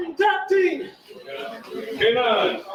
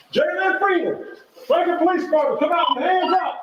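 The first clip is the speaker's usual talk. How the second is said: through a megaphone; 8 semitones higher than usual. Real, not acted. Police calling suspect out.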